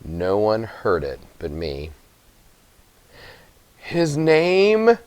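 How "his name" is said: put-on a higher, pressing old grandmother's question; Gran asking. A narrator's reading. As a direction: ask it urgently as the old grandmother. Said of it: "Gran asked".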